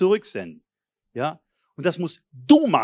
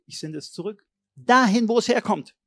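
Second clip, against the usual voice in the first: a preacher modelling a bold declaration; firm proclamation; 3 semitones higher than usual. Shown as a demonstration. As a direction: send it back with authority. Demonstrates proclamation aloud.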